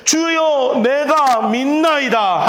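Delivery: very slow, heartfelt declaration; wholehearted confession. Retold or imitated. 고침받은 맹인이 예수님께 온 마음을 다해 고백하며, 아주 느리게. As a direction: stretch each word with full sincerity. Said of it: "정말 온 마음을 다해서 이야기하잖아요".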